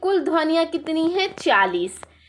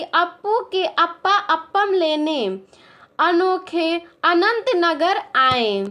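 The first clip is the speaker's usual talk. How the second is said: rattled off fast with a light laugh; said quickly. Shown as a demonstration. Teacher shows pupils how to say it quickly, fast. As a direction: rush through it like a tongue twister. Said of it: "इसे झटपट कैसे कहेंगे".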